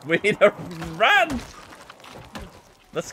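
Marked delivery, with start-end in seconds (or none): 0.1-1.4 high urgent yell to run; urgent shout. Real, not acted. Zombies closing in, urgent.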